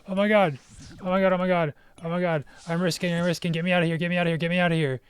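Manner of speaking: loud, high, frantic disbelief; real panic-joy at a rare drop; shrieking jackpot winner. Real, not acted. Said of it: "So, got live reaction".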